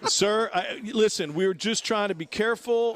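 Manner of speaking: nervous pleading. Retold or imitated. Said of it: "pleading with the officer".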